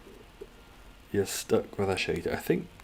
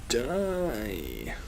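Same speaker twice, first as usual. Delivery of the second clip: Prince Charles; 5 semitones higher, much slower than usual. Acted. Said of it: "Prince Charles says to the Queen every morning".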